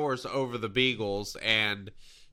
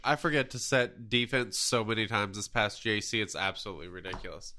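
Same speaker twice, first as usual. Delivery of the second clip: blocked nose from allergies; talking through stuffy nose. Real, not acted. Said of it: "If I sound super stuffy".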